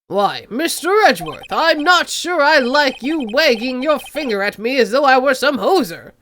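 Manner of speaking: put-on Canadian accent. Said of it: "he is Canadian".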